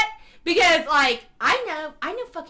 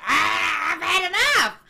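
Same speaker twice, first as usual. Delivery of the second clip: mock exasperated yell; 2 semitones higher than usual. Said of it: "the other guy's just like".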